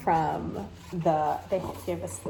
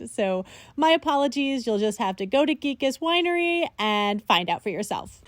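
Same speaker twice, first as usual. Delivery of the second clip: louder, projected explanatory narration; voice-over aside; 3 semitones higher, 4 dB louder than usual. Acted. Vlogger apologizing to viewers for missing wine names, voice-over.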